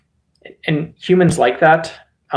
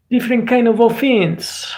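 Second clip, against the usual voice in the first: higher, put-on Russian accent; 7 semitones higher than usual. Streamer underlining the pun on offense, mock Russian accent. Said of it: "this is the Russian accent version of this".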